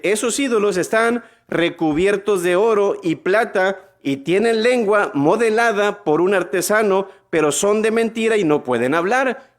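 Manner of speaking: lifted preacher's scripture voice; scripture reading. Acted. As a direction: read the verse aloud to the crowd. Reads Bible verse aloud.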